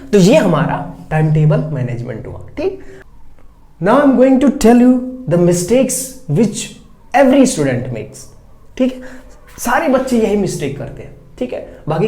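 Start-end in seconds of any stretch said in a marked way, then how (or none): 3.8-8.2 slow announcement. Real, not acted. Teacher announces next topic slowly.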